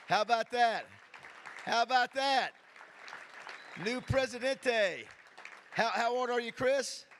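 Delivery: loud, high, rousing crowd-pumping call; host rallying the crowd for Chris Kane, loud and high; excited hype. Real, not acted. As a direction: pump up the room for the new president. Host hyping up new president.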